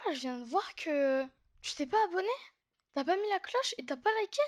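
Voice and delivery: mock scolding, pitch climbing high; mock indignant. Vlogger chiding viewers who haven't subscribed, mock indignant. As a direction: play at being shocked by the viewer.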